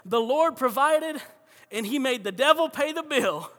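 high, triumphant punchline delivery; retold excitement. Lady answering the angry neighbor, jubilant. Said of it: "so excited".

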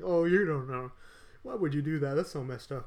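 high, loud mock outrage; mocking outraged critic. Podcaster mimics outraged critics of the draft. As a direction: scoff like an outraged bystander.

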